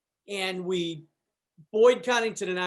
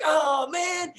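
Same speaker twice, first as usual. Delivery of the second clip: laughing groan; 7 semitones higher than usual. Retold or imitated. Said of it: "I was like".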